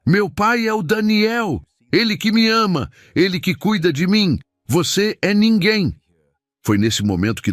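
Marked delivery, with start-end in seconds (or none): 0.1-1.6 high, slow, breaking cry of "Daniel"; a weeping boy shouting his loyalty. Acted. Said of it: "a voz quebrando de emoção". 1.9-5.9 voice breaking. Acted. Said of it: "a voz quebrando de emoção".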